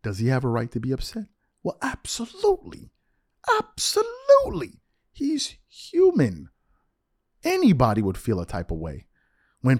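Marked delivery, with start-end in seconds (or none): 1.6-6.5 emphatic agreement. Real, not acted.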